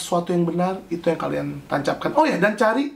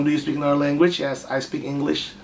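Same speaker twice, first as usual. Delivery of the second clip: Javanese English; 3 semitones lower than usual. Shown as a demonstration. Streamer mocks his own English with a Javanese accent. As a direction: read the English like a Javanese speaker. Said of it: "English orang Jawa".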